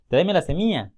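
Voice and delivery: semilla said as "semia", the ll dropped; common mispronunciation. Retold or imitated. Teacher imitating how people mispronounce semilla. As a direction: swallow the ll in semilla. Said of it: "un error común es pronunciar semilla".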